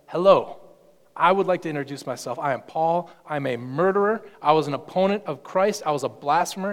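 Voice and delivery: a touch of Paul, brisk and bold; lightly voiced Paul, confessing boldly; a hint of Paul introducing himself; Paul speaking.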